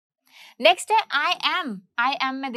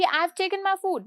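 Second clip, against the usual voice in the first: casual; 5 semitones higher, much slower than usual. Shown as a demonstration. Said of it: "मतलब मैंने बहुत ही casually बोला".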